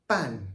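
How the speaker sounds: ban said with a sharp falling fourth tone. Shown as a demonstration. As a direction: ban with a quick Mandarin falling tone. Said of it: "fourth tone".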